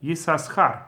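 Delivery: "Yisaschar" with two separate s sounds, a vowel between them; both sins voiced. Shown as a demonstration. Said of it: "will be pronounced as Yisaschar".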